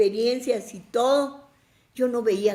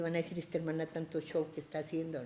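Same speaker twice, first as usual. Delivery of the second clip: inner worried thought; 4 semitones lower, 12 dB quieter, faster than usual. Retold or imitated. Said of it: "Pensé".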